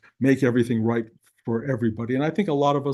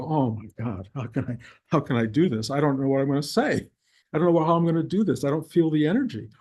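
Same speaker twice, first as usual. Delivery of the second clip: anxious; faster than usual. Retold or imitated. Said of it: "I get up and go".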